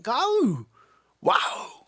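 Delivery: high, soft, awestruck actor voice; Owen Wilson. Acted. Actor greeting Christopher Walken as huge fan, Owen Wilson impression. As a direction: gush lightly like an easygoing movie star. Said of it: "Owen Wilson".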